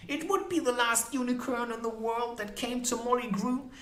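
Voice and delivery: high-pitched, bitter woman's retort; disdainful sniff. A narrator's reading. Molly answering that she is the last, high and sniffy. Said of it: "Molly sniffed".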